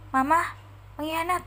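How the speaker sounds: a hammed-up yell of accusation; shouting. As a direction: yell it at your mother. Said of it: "teriak Ratu".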